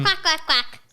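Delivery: playful put-on duck quacks; duck quacking. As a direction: quack like an insistent little duck. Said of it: "hear what my duck is saying".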